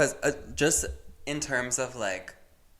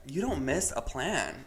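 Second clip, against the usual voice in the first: ordinary talk, nothing marked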